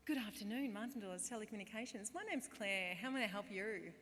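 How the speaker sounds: lilting call-centre greeting, slightly lifted; phone greeting voice. Acted. Call-centre worker greeting a customer, lilting phone voice. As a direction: answer the phone in practised sing-song. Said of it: "this is how I'd answer the phone".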